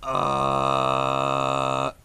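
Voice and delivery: low machine-like grind; low mechanical throat grind; false fold growl. Shown as a demonstration. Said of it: "sounds really weird".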